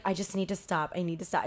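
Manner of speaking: soft, subdued retold plea; mildly distressed quote. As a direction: quietly act out someone needing out. Retelling a nervous friend wanting out.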